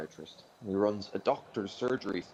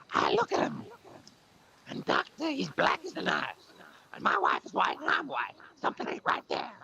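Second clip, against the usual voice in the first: sad moth voice; 4 dB louder than usual. Acted. Moth complaining to the foot doctor, very high and mournful. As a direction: wail like a heartbroken moth. Moth character in told joke.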